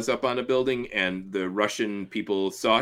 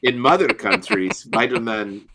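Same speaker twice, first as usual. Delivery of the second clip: Smirnoff impression; 4 dB louder, slower than usual. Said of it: "Yakov Smirnoff impression".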